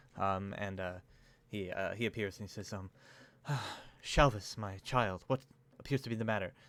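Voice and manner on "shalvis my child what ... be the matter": calm, soothing, reassuring abbot-like voice. Storyteller voicing the abbot as he answers shalvis, calm, reassuring abbot voice. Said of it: "the abbot's like reassuring voices".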